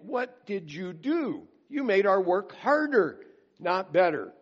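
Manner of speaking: hammed-up, exasperated workers accusing Moses; ticked off complaint. Beaten workers confront Moses, in a mildly acted angry complaint. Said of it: "they are ticked off".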